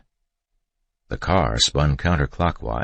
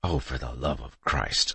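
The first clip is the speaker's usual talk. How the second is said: muttered aside while pinned behind the car; under his breath; 5 dB quieter than usual. A narrator's reading. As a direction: grumble to yourself. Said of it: "I said under my breath".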